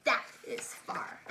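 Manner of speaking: whispered aside. Real, not acted. Teacher reading to children, whispering an aside. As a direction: lean in and whisper it. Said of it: "whispered aside to children".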